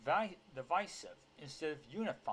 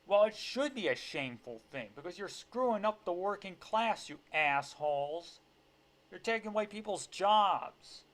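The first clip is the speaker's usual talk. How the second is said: loud, raised outraged rant; angry retort; 5 semitones higher, 7 dB louder than usual. Real, not acted. Commentator telling off bosses for taking jobs, angry. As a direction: scold them, louder and higher.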